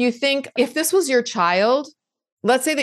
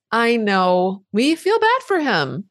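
a higher, gentle comforting voice; loving and kind; 3 semitones higher than usual. Retold or imitated. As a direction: soothe the worried part like a mother. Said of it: "says lovingly and kindly".

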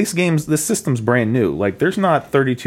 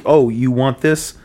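tempting devilish whisper; slower than usual. Retold or imitated. GameStop clerk voiced tempting.

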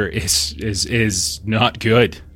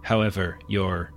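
muffled voice; 5 dB quieter than usual. Acted. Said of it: "again, muffled voice".

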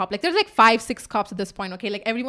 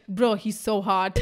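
amused aside; 3 semitones lower, slower than usual. Retold or imitated. Friend's giggly aside amid laughter.

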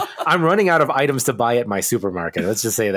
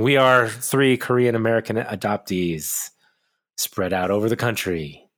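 smooth radio voice; slower than usual. Real, not acted. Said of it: "You also changed your cadence".

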